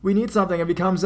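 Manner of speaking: put-on frightened boys shouting to hurry; panicked shout. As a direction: yell at friends to hurry, a burglar at the door.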